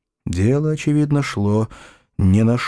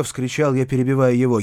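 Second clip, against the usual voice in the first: usual speaking voice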